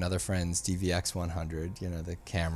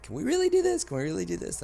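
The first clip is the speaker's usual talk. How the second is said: pleading; 11 semitones higher, faster than usual. Retold or imitated. Pleading with the Academy staff.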